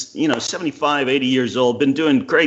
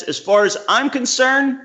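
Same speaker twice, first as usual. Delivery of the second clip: quoting Cleese; 8 semitones higher than usual. Retold or imitated. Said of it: "Cleese says".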